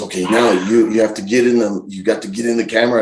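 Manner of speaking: coaching pal, lightly put-on voice; Bad Luck Fale. Wrestler coaching his friend for the camera, friendly impersonation. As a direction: impersonate a friend giving keen instructions. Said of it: "this is my best Fale impersonation".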